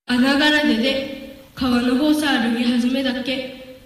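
plain reading voice

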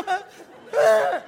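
high, loud overwhelmed wail; the merchant breaks down at each packet of gold; mock sobbing. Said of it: "いちいち泣かんでよいぞ". (大げさに泣き声をあげる)

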